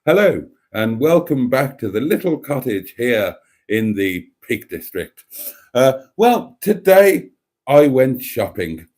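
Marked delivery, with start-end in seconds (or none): 0.0-5.2 unhurried, measured video welcome; calm and measured. Acted. Vlogger imitating a friend's shopping video, calm and measured. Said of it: "calm and measured". 6.6-8.9 slow, deliberate presenter delivery; calm and measured. Shown as a demonstration. Imitating a shopping vlogger for the ladies, calm and measured. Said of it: "I've gotta be calm and measured".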